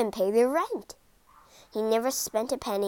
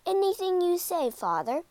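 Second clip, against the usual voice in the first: keen, higher eager yes; 7 semitones higher than usual. A narrator's reading. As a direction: agree gladly and brightly. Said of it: "didn't sound so happy".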